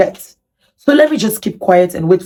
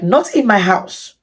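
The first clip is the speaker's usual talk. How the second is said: slow, firm, a touch of retold anger; 3 semitones higher, slower than usual. Refusing the guest's asylum plan in her house, slow and firm. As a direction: lay down the line, understated. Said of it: "with anger".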